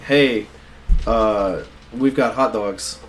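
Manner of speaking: lightly mimicked Jersey accent. Imitating a coworker being stupid, in a mock Jersey accent. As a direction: put on a silly Jersey hot dog seller. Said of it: "she doesn't have a Jersey accent, she just said it like that".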